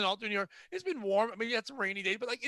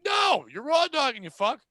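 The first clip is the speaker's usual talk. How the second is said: loud, higher exclamation; comic shout; 5 semitones higher, 6 dB louder than usual. Acted. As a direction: shout the punchline. Shouted punchline.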